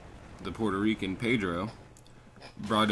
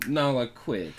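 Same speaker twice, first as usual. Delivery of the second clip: scolding dog; 5 semitones higher, 4 dB louder, slower than usual. Real, not acted.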